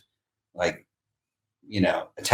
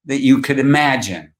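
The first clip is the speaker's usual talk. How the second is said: high, eager put-on voice; an excited friend explaining YouTube; lightly hammed-up old friend; imitating Lance; 7 semitones higher than usual. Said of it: "And he's like".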